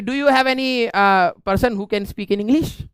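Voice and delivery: slow, halting imitation of a foreign professor; mock professor asking. Professor asks the silent class for an English speaker, slow and halting. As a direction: drag out the English question like a puzzled teacher. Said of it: "तो उन्होंने कहा कि".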